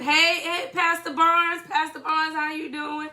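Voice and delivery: lightly voiced old church mother greeting; a hint of an old church mother. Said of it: "You sound like an old mother".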